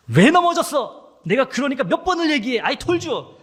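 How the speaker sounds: loud, high, slow scolding; scolding mother. Acted. Mother scolding her fallen child, loud and high. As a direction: nag the hurt child from above. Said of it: "이러지 않으셨죠?".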